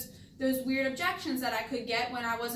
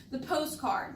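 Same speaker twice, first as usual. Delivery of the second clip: slow, deliberate POSTCARD; emphasized POSTCARD; slower than usual. Shown as a demonstration. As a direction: draw out "postcard" so it lands. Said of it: "words that you hear me emphasizing".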